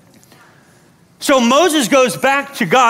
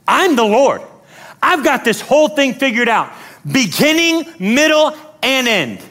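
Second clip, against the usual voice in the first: raised, emphatic proclamation; commanding declaration; 3 semitones higher than usual. Acted. God reminding Moses who is in charge, commanding. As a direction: assert total authority, phrase by phrase. Voices God asserting authority.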